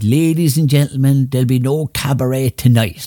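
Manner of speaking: lightly imitated club owner's stage announcement; a hint of the venue boss on stage; Buddy. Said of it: "That's the way Buddy spoke".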